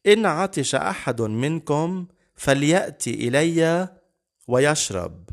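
slow, high-pitched, ringing call to the listeners; lifted voice, each phrase drawn out. Acted. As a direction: proclaim it as Jesus calling out. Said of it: "يسوع عم بيقلنا بصوت مرتفع هالكلمات".

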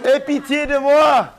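high, slow plea for mercy; pleading cry. Acted. Blind beggar pleads with Jesus, high and slow. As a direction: beg for pity, drawn out. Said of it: "il s'écria".

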